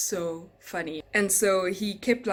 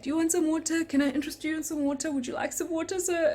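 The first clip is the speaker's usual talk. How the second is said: mimicking Mario; 9 semitones higher than usual. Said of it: "He's like".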